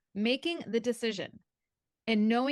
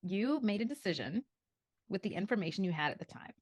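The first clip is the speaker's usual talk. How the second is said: reassuring friend. Retold or imitated. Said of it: "He's like".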